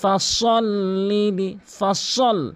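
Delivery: ফাসল্লি লি slow with a full, heavy s; heavy saad. Shown as a demonstration. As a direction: thicken the স of ফাসল and hold it. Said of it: "সতের উচ্চারণ করতে হবে". (ফাসল-এ মোটা সোয়াদ)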